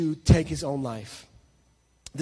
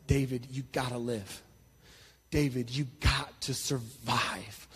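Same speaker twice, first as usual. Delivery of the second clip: quiet inner voice; 5 semitones lower, 7 dB quieter than usual. Acted. Drowning boy hears his own inner voice, soft urging. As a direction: murmur it like a voice deep underwater. Inner voice underwater telling him live.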